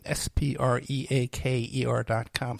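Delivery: spelled out slowly. Shown as a demonstration. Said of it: "you can find them at Spreaker dot com".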